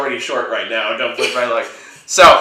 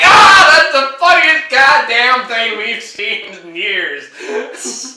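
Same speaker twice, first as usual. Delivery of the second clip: slow, high, louder laughing shout; mock shout; 9 semitones higher, 4 dB louder, much slower than usual. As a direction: bellow it while cracking up. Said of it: "We were all like".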